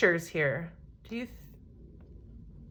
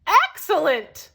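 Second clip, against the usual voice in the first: shouted; 4 semitones higher, 4 dB louder, slower than usual. Acted. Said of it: "shouted the travelers".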